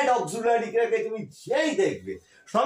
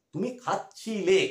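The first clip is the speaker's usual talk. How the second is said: তুমি খাচ্ছিলে ধীরে স্পষ্ট করে; ধীরে প্রতিটি অক্ষর স্পষ্ট বলো; slow model answer; slower than usual. Shown as a demonstration. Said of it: "এই ধরনের উচ্চারণ". (ধীরে স্পষ্ট উচ্চারণ)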